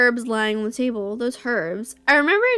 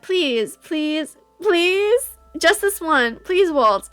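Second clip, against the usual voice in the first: pleading climbing higher each time; begging child; 4 semitones higher, much slower than usual. Acted. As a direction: beg like a small girl. Child begging Waltz in memory.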